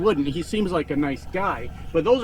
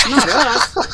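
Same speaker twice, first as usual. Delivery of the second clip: high, loud and sharp; 7 semitones higher, 4 dB louder than usual. Acted. Insisting millennials aren't lazy.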